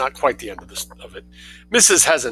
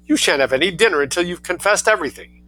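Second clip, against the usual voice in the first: raised, angry mother's threat; storming; 6 semitones higher than usual. Acted. Mother punishing her son until he confesses, storming. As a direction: lay down the law in a rage. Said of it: "she stormed".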